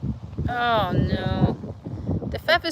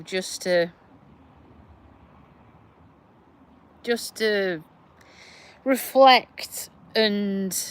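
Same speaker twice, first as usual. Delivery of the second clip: emotional, close to tears; slower than usual. Real, not acted. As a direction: voice near breaking as she talks of needing time. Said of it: "I'm getting emotional again".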